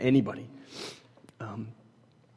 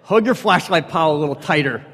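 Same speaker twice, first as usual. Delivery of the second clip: laughing; 6 semitones higher, 13 dB louder than usual. Retold or imitated. Mocking advice, laughing.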